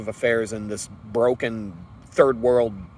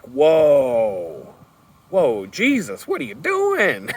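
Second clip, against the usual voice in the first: stunned disbelief; 3 semitones higher, 4 dB louder, much slower than usual. Retold or imitated. Hearing a friend offer five thousand dollars, amazed squeal. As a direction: pitch leaps up in disbelief.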